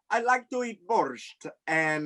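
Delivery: slow put-on Russian accent. Guest offers a clue in guessing game, slow Russian accent. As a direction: lay on a Russian accent slowly.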